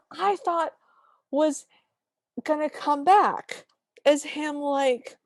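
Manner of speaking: high, laughter-squeezed words; laughing while talking. Real, not acted. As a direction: struggle to talk through the laugh. Laughing at the made-up place name.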